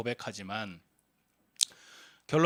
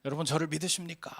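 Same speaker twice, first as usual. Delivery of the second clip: higher-pitched retold call to a crowd; mock loud call; 5 semitones higher, faster than usual. Blondin addresses the watching crowd, retold as a raised call. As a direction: call out as the daredevil, lightly raised. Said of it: "큰 소리로 외칩니다".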